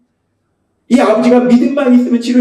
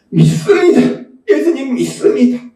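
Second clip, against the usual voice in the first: retold shout. Earnest father to Jesus, retold shout. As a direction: call it out lightly as the father. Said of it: "그 소리로 외쳤어요".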